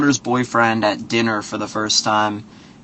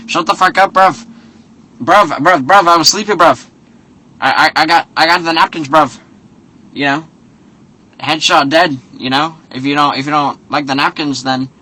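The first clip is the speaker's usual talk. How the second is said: higher, louder London "bruv" voice, defensive; mock London accent; 4 semitones higher, 3 dB louder than usual. Son-in-law brushing off the dad over napkins, mock London accent, higher and louder. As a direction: fighter snapping back in a put-on London accent. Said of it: "he's just saying bruv too much".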